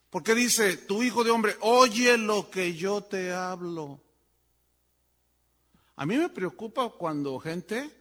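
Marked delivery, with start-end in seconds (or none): 0.8-4.0 emphatic scripture reading. Acted. Preacher repeats God's command.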